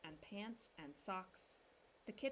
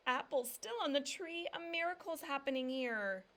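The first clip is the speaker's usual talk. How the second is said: higher and louder, thrilled; amazed exclamation; 6 semitones higher, 7 dB louder than usual. A narrator's reading. Mama exclaiming to the family, thrilled. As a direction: marvel out loud.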